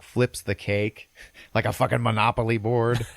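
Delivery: breaking up with real laughter mid-sentence; laughing. Real, not acted. Storyteller amused by the flipped cake, laughing.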